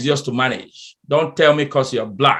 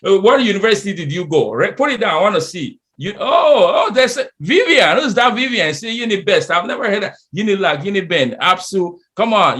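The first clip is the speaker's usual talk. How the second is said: raised, teasing voice of impressed coworkers; playful higher mimicry of the room; mock colleagues comparing schools; 5 semitones higher than usual. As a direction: lightly act out coworkers gushing over schools. Mocking colleagues comparing universities.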